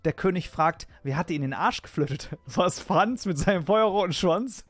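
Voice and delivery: reciting a bawdy rhyme with relish; rhythmic verse, punchline at end; poem recital. Acted. Recites second German poem.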